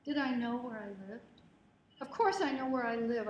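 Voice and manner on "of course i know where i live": louder indignant snap; snapped. Retold or imitated. Girl snapping at a helpful stranger, louder indignant snap. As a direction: bite back at him, offended. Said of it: "I snapped at him".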